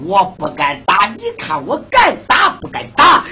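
indignant challenge. Acted. Furious official challenging a threat.

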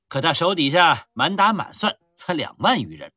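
loud swaggering army commander; boastful rough general. Acted. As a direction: brag loudly over wine. Drunken general boasting at a feast. (粗豪自大的将军大声吹嘘)

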